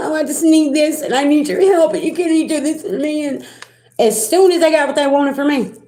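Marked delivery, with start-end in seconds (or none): 0.0-3.2 tearful, crying, pleading voice. Retelling what the person said when they called: imitating someone crying. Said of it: "called me crying and".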